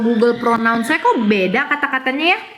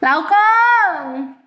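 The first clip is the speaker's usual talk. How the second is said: Laukong called out high; careful naming; 7 semitones higher than usual. Shown as a demonstration. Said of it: "Jangan sampai gua salah nyebut".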